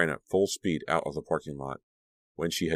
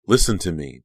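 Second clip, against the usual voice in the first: snapped; 7 dB louder than usual. Acted. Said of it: "Dee snapped".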